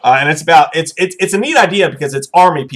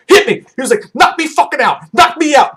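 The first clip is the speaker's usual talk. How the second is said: pleading for a knockout; 8 semitones higher than usual. Retold or imitated. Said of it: "He's like".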